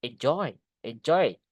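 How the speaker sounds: short repeated "Enjoy", each landing on a falling "joy"; stress on second syllable. Shown as a demonstration. Teacher drilling after explaining, stress on "joy" in "Enjoy". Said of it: "Penekannya di joy-nya".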